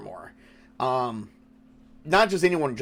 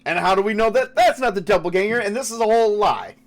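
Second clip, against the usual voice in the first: raised, higher-pitched suspicious challenge; acted accusation; 6 semitones higher, 4 dB louder, faster than usual. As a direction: press the accusation in character. NPC keeps accusing the party.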